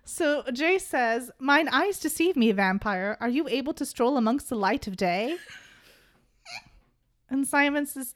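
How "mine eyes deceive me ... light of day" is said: a hint of an old-fashioned gentleman; lightly voiced archaic speech; old dude voice. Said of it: "we're gonna do this in old dude".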